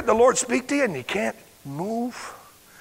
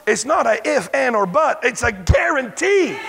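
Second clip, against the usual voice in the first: shouted guarantee; 4 semitones higher, 4 dB louder than usual. Real, not acted. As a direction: drive it home to the congregation. Preacher shouting the point.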